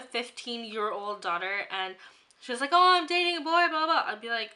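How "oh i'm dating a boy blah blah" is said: put-on giddy teen girl. Imagined teen daughter quoted.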